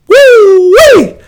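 high, loud hype whoop; excited whoop. Real, not acted. Host hyped about new signings, loud high whoop. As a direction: let out a joyful yell. Hyped podcast sign-off cheer.

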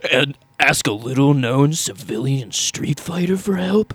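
lightly dramatic trailer read; a hint of trailer announcer; movie trailer voice. Shown as a demonstration. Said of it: "we gotta do the movie trailer voice".

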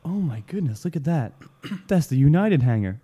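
lightly put-on American accent. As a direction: mimic her with a touch of American. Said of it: "putting an American accent on".

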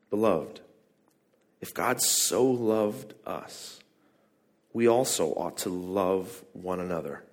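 measured, solemn Bible reading; scripture reading. Acted. Pastor reading the text to the congregation, solemn.

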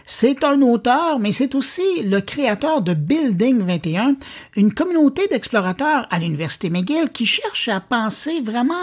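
lively, measured presenter read with lifted phrase openings; podcast host introduction. Acted. Host presents this week's inspiring guest to listeners, presenter's intro read.

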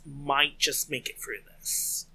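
emphasis landing on "might"; stress on might. Real, not acted. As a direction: lean on "might" to show it is only a possibility. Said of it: "Emphasis on might".

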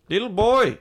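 botched Mexican accent. Shown as a demonstration. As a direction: call out in a failed Mexican accent. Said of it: "sounded like you were slow and from Montana".

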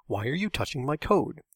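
emphatic, accusing question. A narrator's reading. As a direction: demand an answer emphatically. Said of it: "Todd said emphatically".

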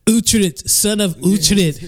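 dramatic proclamation. Pretend. Quoting the show's hero line.

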